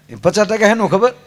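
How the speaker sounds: ordinary delivery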